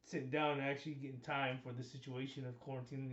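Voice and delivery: talking through a face mask; muffled behind a mask, mouth covered. Real, not acted. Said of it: "You know, my mouth is covered".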